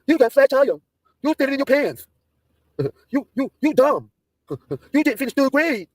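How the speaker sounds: high, slow mocking voice of a dumb guy; a high, slow impression of the dumb friend; mocking imitation. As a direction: ham up the idiot talking. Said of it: "You should see the shit he says".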